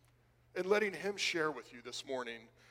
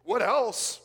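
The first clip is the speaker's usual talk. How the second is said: loud, higher, pressing question; insistent prompt; 6 semitones higher, 8 dB louder than usual. Acted. Apostle pressing a tearful friend for more, loudly insistent. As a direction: push hard for the rest.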